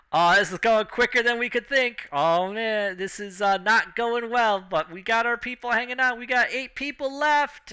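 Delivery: high, excited contest announcer. Acted. Announcer hyping the crowd at the drinking contest, high and excited. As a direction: call the drinking contest like a hyped ringside announcer. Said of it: "the announcer's just like".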